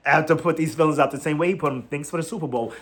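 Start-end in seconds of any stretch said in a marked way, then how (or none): 1.8-2.7 offhand thanks, slightly softer; imitating a nonchalant send-off. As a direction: toss it off like it barely matters. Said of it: "Like, so nonchalantly".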